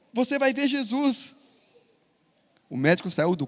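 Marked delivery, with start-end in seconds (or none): 0.1-1.3 put-on high, slow child's insistence. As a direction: say it like a little boy sure of his faith. Child insists again to doctor.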